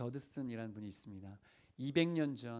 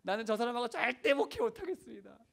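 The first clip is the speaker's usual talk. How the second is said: high, loud protest to God; acted-out exasperated pleading, rising in pitch and force; imitated desperate prayer; 7 semitones higher, 4 dB louder than usual. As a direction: cry out an ultimatum in prayer, hammed up for listeners. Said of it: "이렇게 기도했대".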